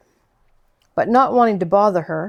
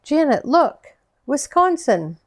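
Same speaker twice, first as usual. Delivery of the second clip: excited shout; 7 semitones higher than usual. A narrator's reading. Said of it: "I shouted to that to Janet".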